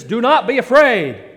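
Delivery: loud, clear angel. Acted. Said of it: "really clearly and really loudly".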